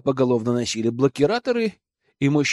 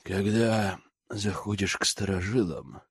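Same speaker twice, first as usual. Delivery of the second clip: gruff inmate; 6 semitones lower, 7 dB quieter than usual. Acted. Gruff inmate greets newcomer.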